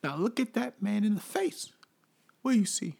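bouncer. Acted. Bouncer skit, raised voice.

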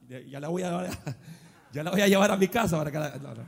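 talking through laughter; laughing. Real, not acted. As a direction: joke while laughing. Joking about his wife. (riéndose mientras bromea)

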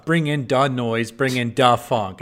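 slow, deliberate weight on "duh"; stress on "duh". Retold or imitated. Old dowager theater reviewer reciting a show title, stressing "duh". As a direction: lean on "duh" as a full, separate word. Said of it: "emphasize the word "duh".

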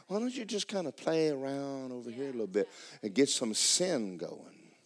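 lightly coax, trailing away at the end; lightly voiced tempting Satan. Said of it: "So he just kinda pull you off and go".

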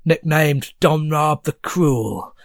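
proud, preachy regular; goblin patron. Acted. Goblin patron praises the Unicorn candidate, lightly voiced. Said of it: "he says".

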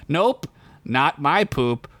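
a dim little creature, slowly worried; Squib's voice. Acted. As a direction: Squib confesses to Ugla. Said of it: "Squid said".

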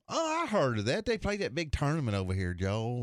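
high-pitched clueless wonder; Bobby's put-on innocence. Buddy putting it on for the secretary, high naive voice. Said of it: "he was just putting it on for this guy".

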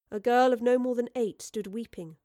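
ordinary delivery

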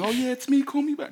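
high bright put-on voicemail voice; sing-song voicemail message; voicemail greeting.

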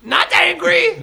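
laughing. Pretend. Mock German denial.

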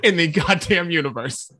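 loud, drawn-out exasperated verdict; emphatic disgust. Real, not acted. Co-host condemns the worst song of the year, emphatic disgust. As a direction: hammer it out slowly, voice rising. Ranting about a hated song.

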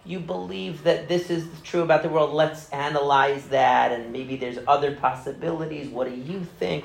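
a hint of a soft-spoken therapist; gentle therapist. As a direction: mildly imitate a patient, easygoing counselor gently probing. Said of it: "he didn't believe that you come with the patient".

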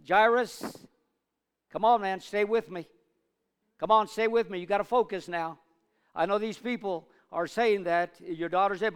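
loud, high pleading urge to hold on; rising shout of encouragement to a desperate father; urgent urging. Acted. Jesus urging Jairus to stay focused, loud and rising.

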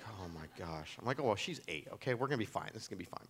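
mild dread, talking himself into it; quietly calming his own nerves; muttered self-reassurance. Retold or imitated.

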